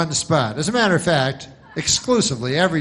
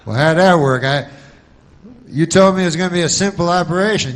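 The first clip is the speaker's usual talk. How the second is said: indignant son; 4 semitones higher, 5 dB louder, faster than usual. Pretend. Arguing with doctor about complications.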